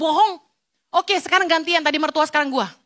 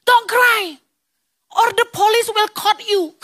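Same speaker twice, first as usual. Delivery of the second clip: mock threat; 4 semitones higher, slower than usual. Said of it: "Jadi saya ancam".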